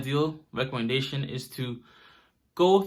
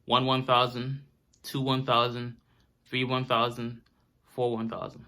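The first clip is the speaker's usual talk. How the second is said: slow counting; 3 semitones lower, 3 dB quieter than usual. Shown as a demonstration. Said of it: "as I'm breathing, I'm counting in my head".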